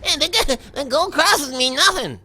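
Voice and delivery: high, laughing mocking voice; mocking commenter. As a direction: mimic the hater with a snicker. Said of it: "Guess what?".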